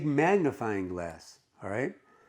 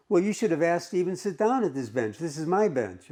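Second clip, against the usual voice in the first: mildly cheeky, pitched up at the start; lightly acted cheeky retort; a little cheeky; 5 semitones higher than usual. Woman claiming her park bench from a stranger, a little cheeky. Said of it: "a little bit cheeky".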